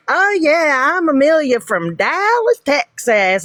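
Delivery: high, exaggerated Texas twang; hammed-up, unconvincing Texas drawl; bad Texas accent. Proving to doubters they're from Dallas, fake Texas accent. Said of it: "That was the worst Texas accent I've ever heard".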